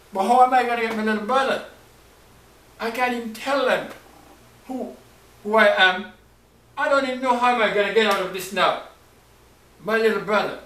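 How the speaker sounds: high, loud and rushed; frantic longing for his brother; desperate pleading. Acted. Joseph longing for Benjamin, pleading high, loud and fast. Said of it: "He said".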